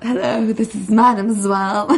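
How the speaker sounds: snobby French accent, laughing through it; a posh French lady introducing herself. Shown as a demonstration. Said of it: "Can you do it one more time".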